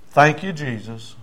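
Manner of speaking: slow, deliberate thanks; measured prayer of thanks; leading a prayer. Retold or imitated. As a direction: give the prayer line to repeat. Preacher leads thanks for repeating.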